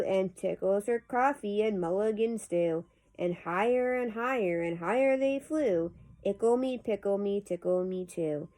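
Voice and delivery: lilting, rhythmic nonsense-verse reading; playful poem recitation. Acted. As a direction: bounce along with the rhyme. Reads a poem aloud.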